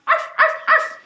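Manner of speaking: high, loud yappy bark; puppy bark. Shown as a demonstration. Inviting kids to bark.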